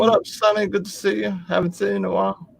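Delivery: high goofy cartoon voice; lobster voice. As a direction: greet them in a squeaky silly voice. Greeting chat in put-on voice.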